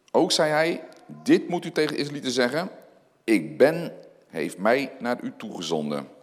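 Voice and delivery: measured, solemn Bible reading; scripture reading. Acted. Pastor reads Exodus three to the church, solemn reading.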